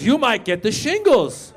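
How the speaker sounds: slow, ominous ad warning; hammed-up commercial announcer, slowly; mock commercial voice. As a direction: stretch it out like a TV scare ad. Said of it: "And it goes".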